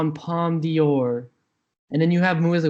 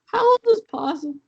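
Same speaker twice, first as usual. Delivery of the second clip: shocked outburst; 5 dB louder than usual. Real, not acted. Outraged at festival news.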